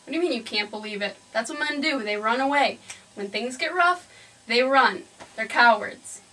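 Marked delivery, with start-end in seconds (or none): 1.3-6.2 louder, punching run and cowards; scornful and rising in anger; bitter rant. Acted. Mother's bitter rant about men.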